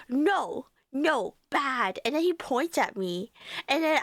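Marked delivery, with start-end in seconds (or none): 0.1-2.0 a lightly voiced angry toddler, simple words; imitating toddler nephew. Toddler nephew getting mad at his aunt, lightly imitated. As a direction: scold like a toddler who can't form words yet. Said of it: "he just goes".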